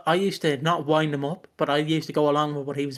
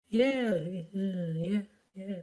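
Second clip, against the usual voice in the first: dad; 4 semitones higher, 5 dB quieter, slower than usual. Retold or imitated. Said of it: "My dad's just sitting there like".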